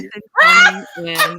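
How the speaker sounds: high, loud hyped announcement; mock-dramatic hype; excited. Real, not acted. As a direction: sell it like the big reveal. Hyping the big moment.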